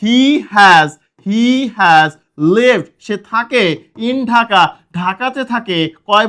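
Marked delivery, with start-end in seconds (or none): 0.0-0.9 slow example. Shown as a demonstration. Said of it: "আমি যদি বলি".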